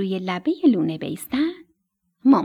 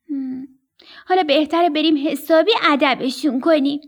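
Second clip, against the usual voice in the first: lightly voiced chick, a touch higher and louder; a hint of a cocky young bird; young storks; 4 semitones higher, 4 dB louder than usual. Young storks planning to punish the boys, lightly voiced.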